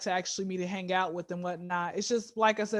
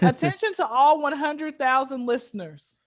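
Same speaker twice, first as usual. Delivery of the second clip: mock announcement; 2 semitones higher, 4 dB louder than usual. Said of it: "attention everybody out there".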